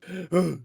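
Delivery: sharp startled gasp; mock-frightened gasp. Real, not acted. Reacting to frightful necklace.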